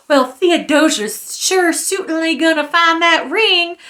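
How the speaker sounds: hammed-up slow character voice; mocked aunt. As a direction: drag it out as the aunt thinking aloud. Mocking the aunt's inner thoughts.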